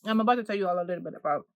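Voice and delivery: talking through a mouthful; words round a bite of fudge; chewing noisily. Real, not acted. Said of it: "excuse me eating while I'm talking".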